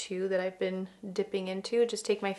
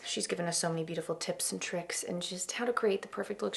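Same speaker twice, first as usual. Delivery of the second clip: hushed whisper; 7 dB quieter than usual. Real, not acted. Whispered praise aside.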